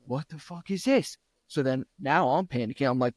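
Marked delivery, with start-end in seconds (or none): 0.1-1.2 shocked disbelief. Retold or imitated. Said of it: "And I was like".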